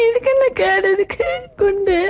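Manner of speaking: tearful lament; wailing. Acted. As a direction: wail in distress. Girl wails after being scolded.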